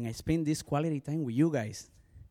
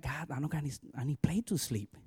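soft, breathy whispered plea; hushed prayer; 8 dB quieter than usual. Retold or imitated. Pastor alone at night praying for a bed, whispered. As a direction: confide it to God in a whisper.

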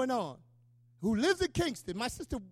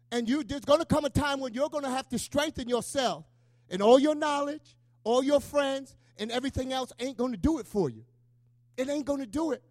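emphatic preacher, swelling louder on the lists; forceful preaching; 2 semitones higher, 6 dB louder than usual. Real, not acted. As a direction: exhort the congregation with force.

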